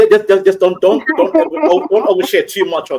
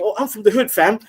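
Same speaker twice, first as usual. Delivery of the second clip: higher-pitched parody of a hood rapper; mock British rapper; 5 semitones higher than usual. Man mocking British rappers' hood claims, parody rapper voice. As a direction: imitate a posturing UK rapper. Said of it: "these guys who are saying".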